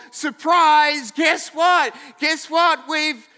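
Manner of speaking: high, drawn-out mock surprise; hammed-up big-news buildup; forced excitement. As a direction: announce it with nervous fanfare. Acted Mary breaking her news.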